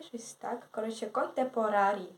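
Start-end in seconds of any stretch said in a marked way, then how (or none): 1.1-2.1 "contemporary" said as spelled, kon-tem-po-ra-ri, every letter sounded; "contemporary" Ukrainian-style, each syllable spelled out; letter-by-letter pronunciation. Real, not acted. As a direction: read "contemporary" the way it's written, not the English way. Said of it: "так я це говорю по буквам".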